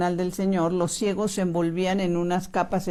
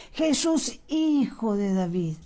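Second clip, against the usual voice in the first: heartfelt cry; 3 semitones higher, slower than usual. Shown as a demonstration. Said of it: "gritarle, pero con el corazón".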